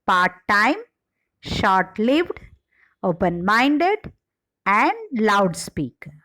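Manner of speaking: second-word stress in part-time, short-lived, open-minded, loudspeaker. Shown as a demonstration. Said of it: "The primary stress on second word are".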